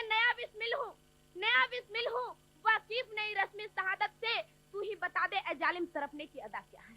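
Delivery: measured verse, opening line repeated, fading at the end; lightly recited couplet, softening toward its close; poem recitation. Acted. Bismil answering the hangman, in softly recited verse.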